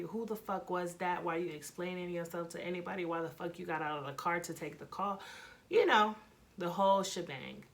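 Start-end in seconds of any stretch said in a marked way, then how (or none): 0.0-5.2 rapid-fire retold interrogation; fast, accusing grilling, not raised in volume; third degree. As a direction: fire questions at the boyfriend without a breath. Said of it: "I gave him the third degree".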